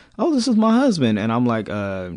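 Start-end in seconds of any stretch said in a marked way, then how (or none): 0.2-1.2 very high, giggly, laughing, cutesy pleased tone, acted. Retelling how a woman introduced her husband, imitating her laughing and smiling. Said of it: "and she's laughing, she's smiling".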